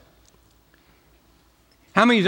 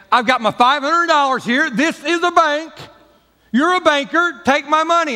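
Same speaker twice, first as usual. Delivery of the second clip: much higher and louder, fed up; exasperated shout; 11 semitones higher, 4 dB louder than usual. Pretend. Customer yelling at the banker to take his money. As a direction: demand it, voice cracking high with frustration.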